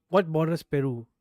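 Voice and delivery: real exasperated loud yell; frustrated yell. Real, not acted. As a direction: shout "What borders Peru?" in real annoyance. Frustrated, shouting the question again.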